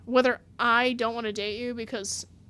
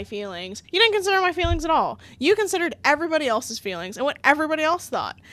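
indignant rant, gathering speed; mock yelling. Imagining yelling at the boyfriend who broke up, indignant. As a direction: tell him off, worked up. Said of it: "Oh, I would yell at him".

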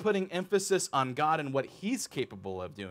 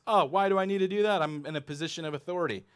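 higher, fast scoffing; smug dismissal; 4 semitones higher, faster than usual. Acted. Ruler scoffing at the commandment, quick and smug. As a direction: brush the rule off smugly.

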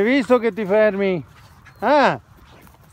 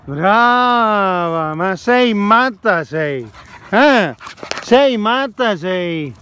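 slow playful scolding; teasing the dog; 2 semitones higher, much slower than usual. Real, not acted. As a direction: tease her slowly, fondly. (rimprovero scherzoso al cane)

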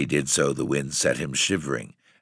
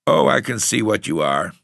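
put-on out of breath boy, higher and louder; panting; 7 semitones higher, 6 dB louder than usual. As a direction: gasp it out, winded. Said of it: "the boy panted".

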